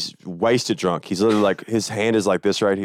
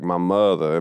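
Southern drawl on "mother"; drawn-out Georgia accent; slower than usual. Shown as a demonstration. Showing how Georgia sounds, drawn-out Southern accent. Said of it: "it's drawn out".

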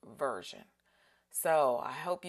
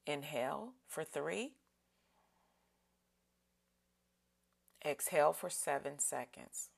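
breathing cue. Shown as a demonstration. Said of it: "let's breathe in".

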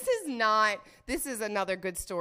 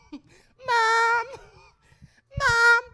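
high, loud call for Mom; drawn-out, high-pitched holler; 10 dB louder than usual. Acted. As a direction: call out like a kid wanting attention. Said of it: "I was just calling out to her".

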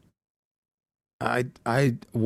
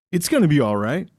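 lightly voiced preppy guy, understated; mock reassurance at an ordinary pitch. Drive-thru worker reassuring a customer, mild preppy voice. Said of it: "and he goes".

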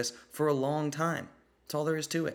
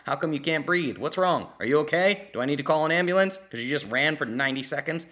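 mocking taunt. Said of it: "I'll say".

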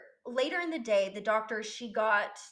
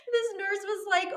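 laughing while talking; 9 semitones higher than usual. Real, not acted.

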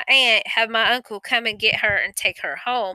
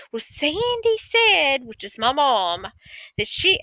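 imitating cousin's mom; 4 semitones higher than usual. Cousin's mom answers on phone.

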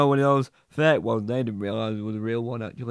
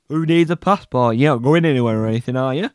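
eager questioning; 8 dB louder, faster than usual. Acted. Suspicious fast quizzing.

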